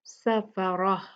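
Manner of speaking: सफ़रह said with final h; stop with ha sakin. Shown as a demonstration. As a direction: Quranic recitation of सफ़रह with silent h ending. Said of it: "हा साकिन में बदलते हैं".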